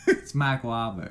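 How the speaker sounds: Boston accent. Shown as a demonstration. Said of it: "He's got that Boston accent".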